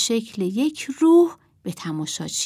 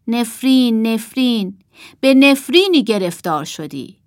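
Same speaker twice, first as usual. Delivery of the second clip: loud, emphatic pronouncement; sorcerer's curse; 3 semitones higher, 6 dB louder than usual. Acted. Puppet sorcerer cursing the boy on stage, loudly declaimed. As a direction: proclaim the curse with force.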